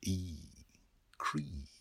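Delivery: soft imitated door creak, rising at the end; quiet two-part creak. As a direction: let the door creak softly. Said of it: "The door of Rutledge's office whispered".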